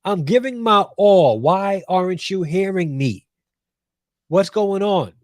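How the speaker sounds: high, pleading mock complainer; whiny complaining worshipper. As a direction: play the indignant guy at the altar who can't get an answer. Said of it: "So he's like".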